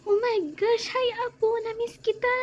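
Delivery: high, loud, delighted grandma voice; excited grandma greeting. Acted. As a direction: gush over the grandchild you missed. Lola greets grandchild with joy. (masayang-masayang bati ng lola)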